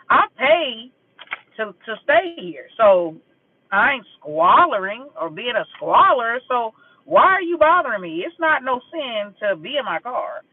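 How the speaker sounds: defensive, emphatic retort; indignant comeback. Retold or imitated. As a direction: push back hard, punching the key words. Retelling her angry comeback to the lady.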